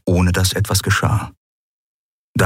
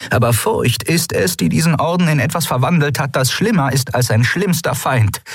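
higher, earnest appeal to the council; a leader warning her fellow admirals; urgent female officer; 5 semitones higher than usual. Acted. (ernste, eindringliche Offizierin)

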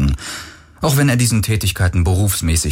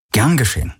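feigned casual; 5 semitones higher, faster than usual. A narrator's reading. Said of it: "gespielt locker".

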